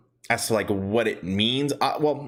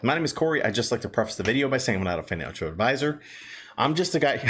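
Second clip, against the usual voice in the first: winded from running, catching breath. Real, not acted. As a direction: talk while still panting a bit. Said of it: "I'm out of breath. I've been running".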